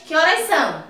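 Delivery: curt, order-like question; blunt demand. Shown as a demonstration. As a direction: direct question that sounds like an order. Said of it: "Parece até ordem".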